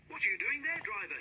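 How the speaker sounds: high, loud foreman's call; shouting foreman. A narrator's reading. Foreman running up and shouting at the driver. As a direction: call out in alarm across the yard. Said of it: "he shouted".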